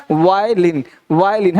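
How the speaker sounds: वायलिन low, falling, with open "waa"; model pronunciation. Shown as a demonstration. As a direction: give वायलिन twice, low and deliberate. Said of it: "तो क्या पढ़ना है".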